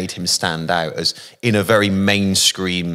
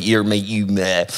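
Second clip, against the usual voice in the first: broad Bristol West Country accent, half farmer half pirate. Shown as a demonstration. Showing listener how Bristol schoolkids talked, broad Bristol accent. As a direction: drop into a rough Bristol accent. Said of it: "the accent there is more like that".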